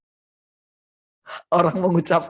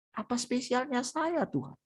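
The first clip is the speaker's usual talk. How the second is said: softer, tear-choked repeat of the question; tearful; 6 semitones higher, 9 dB quieter than usual. Acted. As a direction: let the voice nearly break into tears. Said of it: "Dia nangis". (lirih menahan tangis)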